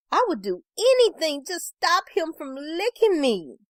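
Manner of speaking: a yelled plea, not full volume; pleading yell. A narrator's reading. Woman begging to stop the dog licking her, mild desperate yell. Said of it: "I yell".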